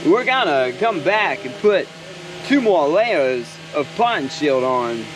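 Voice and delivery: lightly voiced celebrity impression, halting phrasing; Christopher Walken. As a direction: break the sentence up oddly, slowing toward the end. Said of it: "I can do a Christopher Walken".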